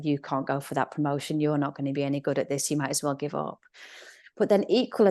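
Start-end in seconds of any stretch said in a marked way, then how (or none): 0.0-3.6 discouraging inner voice. Retold or imitated. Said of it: "the same voice off the mat".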